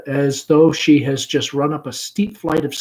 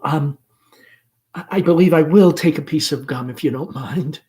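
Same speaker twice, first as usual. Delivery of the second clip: hastily; 3 semitones higher, 6 dB louder than usual. Acted. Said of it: "Laura, hastily, out of embarrassment".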